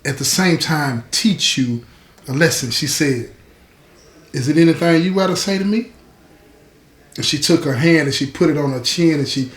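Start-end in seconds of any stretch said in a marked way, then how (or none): 4.3-5.9 gently voiced mother, quick and soothing. Mother to crying daughter, gently soothing but instructive. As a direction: soothe while teaching a lesson, lightly acted. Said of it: "in that voice that a mother would say".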